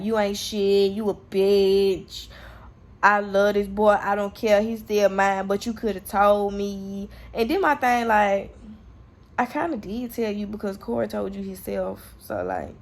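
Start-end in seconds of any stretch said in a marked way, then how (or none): 0.0-7.1 retold angry rant, louder; imitating him bashing her, a mock tirade; going off. Boyfriend chewing her out over the DNA test, retold angry rant. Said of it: "he was going off on me".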